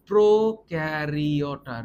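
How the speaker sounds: প্রোক্যারিওটা said slowly and firmly; slow emphatic. Shown as a demonstration. Teacher slowly spelling out প্রোক্যারিওটা. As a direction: lean on প্রোক্যারিওটা so they remember. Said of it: "please".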